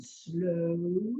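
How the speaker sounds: one long stretched word; slow pace. Shown as a demonstration. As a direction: draw the vowel out to show slowness. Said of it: "or pace".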